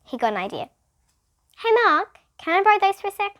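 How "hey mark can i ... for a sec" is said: eager. A narrator's reading. Myron eager request.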